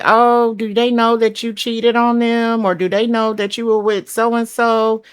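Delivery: high, nosy gossip asking questions; mock a gossip stirring drama. Imagined gossiper asking about cheating.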